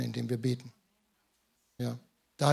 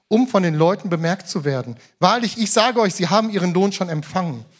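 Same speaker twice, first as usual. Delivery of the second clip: scripture reading; 5 semitones higher, 6 dB louder than usual. Acted. Reads scripture aloud.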